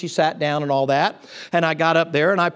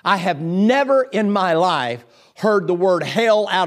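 indignant lady; slower than usual. Retold or imitated. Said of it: "And she said".

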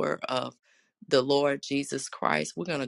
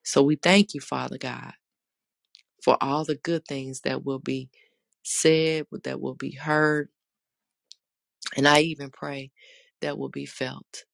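earnest spoken prayer. Acted. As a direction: pray aloud to the congregation. Leads an opening prayer.

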